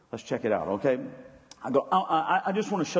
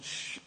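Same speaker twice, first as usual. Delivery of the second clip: crowd shushing; 13 dB quieter than usual. Retold or imitated. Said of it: "And people said".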